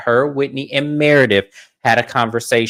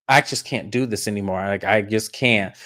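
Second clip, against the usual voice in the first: low, soft, imitated resignation; mildly deflated, slowing at the end; defeated; 4 semitones lower, 6 dB quieter than usual. Heather walks off from the fight, defeated.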